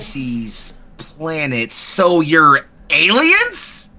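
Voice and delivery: slow, dawning disbelief; dawning realization. Acted. Woman realizing the group are aliens, slow disbelief. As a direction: drag out so you're aliens.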